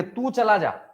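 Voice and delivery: mildly angry demo line; a touch of anger, as an example; feigned mild annoyance; mock angry. Shown as a demonstration. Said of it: "अगर गुस्सा में बोलेंगे".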